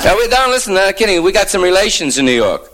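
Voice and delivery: high-pitched, eager small-town local. Acted. Acting out the eager local husband.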